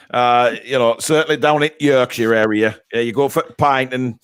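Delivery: hammed-up Yorkshire accent; Yorkshire accent, badly faked. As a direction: put on a dodgy Yorkshire accent. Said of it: "my Yorkshire accent".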